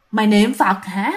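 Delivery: slow, drawn-out ghostly taunt; creepy mocking ghost. Ghost taunting a praying woman at her ear, creepy and drawn out. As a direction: stretch the last word into an eerie tease. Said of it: "vừa nói vừa cười rất là ghê".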